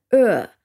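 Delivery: "er" as one long open vowel; isolated vowel sound. Shown as a demonstration. Teacher sounding out U R, "er" held alone. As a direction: hold "er" as a syllable of its own. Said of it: "前面的U R是发成er".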